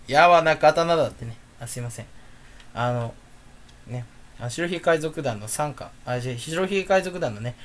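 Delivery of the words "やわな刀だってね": slow, lightly voiced anime line; slow, half-hearted character quote in own voice; Izo impression. Vlogger slips into a One Piece quote, words-only mimicry. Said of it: "遺贈のモノマネをしてしまいました".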